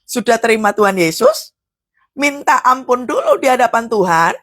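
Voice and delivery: normal talking voice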